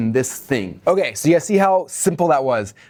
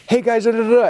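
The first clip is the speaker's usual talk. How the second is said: livestream greeting; 9 semitones higher, 3 dB louder than usual. Shown as a demonstration. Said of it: "have your phone and be like".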